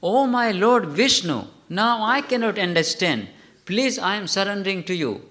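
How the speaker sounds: a mother begging God in earnest; mother's prayer. Retold or imitated. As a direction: plead to Lord Vishnu like a frightened mother. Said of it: "she was praying".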